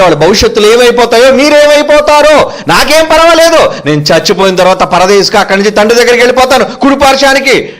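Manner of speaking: urgent warning, mostly pitched high; impassioned preaching. Acted. Voices Jesus warning the women. (ఆవేశంగా హెచ్చరించే ప్రసంగ స్వరం)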